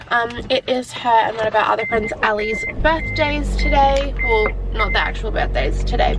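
talking around whitening strips. Real, not acted. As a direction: teeth strips in, slightly muffled words. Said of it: "so if I sound like I'm talking weird".

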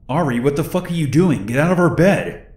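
high, startled angry yell. Retold or imitated. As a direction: yell it at the intruder in shock. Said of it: "Megan woke up and yelled".

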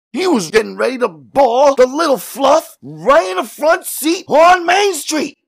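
high, ranting cop building to a shout; outraged policeman. A narrator's reading.

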